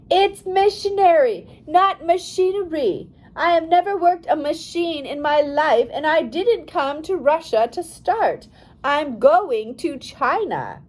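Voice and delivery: furious yell at the official. A narrator's reading. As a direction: explode at him, correcting him hard. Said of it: "she yelled".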